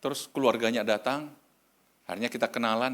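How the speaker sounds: ordinary delivery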